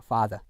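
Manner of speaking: FATHER ending in "-uh", no R; British silent R. Shown as a demonstration. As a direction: say father without the final R sound. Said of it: "R 사운드를 하지 않는단 말이에요".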